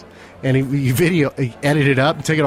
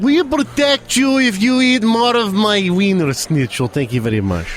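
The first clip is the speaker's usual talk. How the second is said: mock Russian; 6 semitones higher than usual. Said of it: "The Russians are like".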